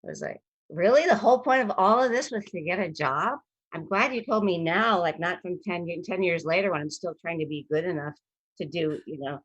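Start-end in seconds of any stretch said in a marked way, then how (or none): 0.7-9.0 incredulous. Retold or imitated. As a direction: ask it in disbelief. Retold incredulous reply.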